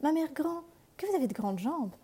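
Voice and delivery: put-on high, wondering little girl; astonished girl. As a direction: marvel like a curious child. La fillette s'étonne. (fillette étonnée, voix haute)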